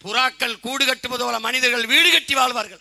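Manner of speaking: imitated high, loud oratory; Muthuramalinga. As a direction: proclaim a prophecy as the old leader. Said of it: "எங்க தாத்தா முத்துராமலிங்க திருத்துறாரு". (பேச்சாளர் போல உரத்த முழக்கம்)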